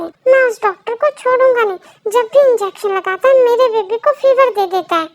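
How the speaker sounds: loud, high-pitched outburst; acted protective parent losing their temper; angry threat. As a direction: rage indignantly at the doctor. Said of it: "यूं, शांत हो जाओ".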